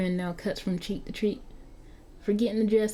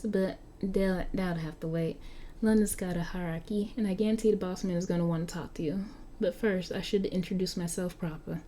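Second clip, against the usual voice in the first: lightly voiced young London vampire, a bit indignant; Marky the vampire. Game master as Marky, grumbling to the player about clothes. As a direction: grumble about the clothes like a centuries-old teen.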